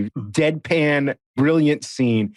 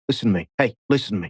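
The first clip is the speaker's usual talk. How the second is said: lightly imitated actor starting a scene; a hint of an impression, insisting on attention; Kyle Chandler; faster than usual. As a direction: imitate him buttonholing someone. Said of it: "your Kyle just then, that was spot on".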